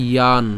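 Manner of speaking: "ইয়ান" said as i-yaan; demonstrated pronunciation. Shown as a demonstration. Teacher showing how the ya-sign sounds, careful "ইয়ান". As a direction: sound "ইয়ান" with a y-glide and long aa. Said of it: "তাহলে এটা উচ্চারণ কেমন হবে?".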